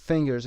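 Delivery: "fingers" stressed on FIN; FIN-gers, second syllable unstressed; stress on first syllable. Shown as a demonstration. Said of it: "استرس روی قسمت اول".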